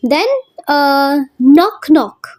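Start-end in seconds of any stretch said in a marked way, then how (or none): 1.4-2.3 नॉक नॉक, both knocks heavy and even, slowly; equal stress. Shown as a demonstration. Teacher showing students a spondee, two heavy beats. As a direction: knock twice with equal weight. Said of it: "यहाँ पर भी हमारा stress".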